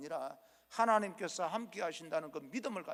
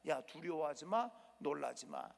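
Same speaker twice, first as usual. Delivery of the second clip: gentle reassurance; 3 semitones lower, 4 dB quieter than usual. Acted. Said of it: "하나님께서 말씀합니다".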